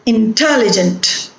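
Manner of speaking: "intelligent" with TEL stressed; stress on second syllable. Shown as a demonstration. Teacher confirming the stressed syllable, "intelligent" stressed on TEL. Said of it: "The stress is on te".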